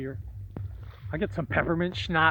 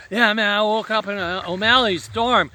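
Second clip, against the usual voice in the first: put-on higher, louder excited drunk story; drunk friend retelling; 5 semitones higher, 7 dB louder than usual. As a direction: tell the night like a giddy drunk.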